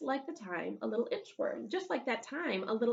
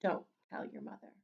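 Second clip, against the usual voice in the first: whispered secret from grandma; grandma whispering; 2 semitones lower than usual. Acted. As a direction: hush it like a conspiring grandma. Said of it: "Grandma gave me a cup of coffee and said".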